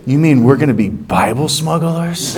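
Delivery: laughing through a big grin; giddy chuckle at the thought of smuggling; grinning laugh. Retold or imitated. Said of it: "I just started smiling really big".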